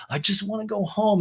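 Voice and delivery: high, lightly tearful imitation; mock crying. Recapper imitating Ariana crying to Lisa, mock tearful. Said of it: "And she's crying".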